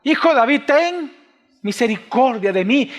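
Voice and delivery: high, loud desperate call; a blind beggar calling out to Jesus, loud and high; crying out. Acted. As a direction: Bartimeo shouting for mercy over the crowd. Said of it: "comienza a gritar".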